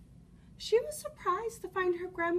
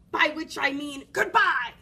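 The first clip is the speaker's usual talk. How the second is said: sly wolf; 10 dB louder than usual. Acted. Wolf menacing pun.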